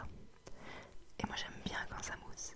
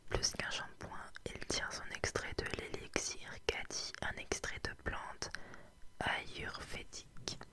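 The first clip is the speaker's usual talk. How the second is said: whispered ad copy reading; asmr ad read. Shown as a demonstration. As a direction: whisper the ad text like a label. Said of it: "attention, je lis".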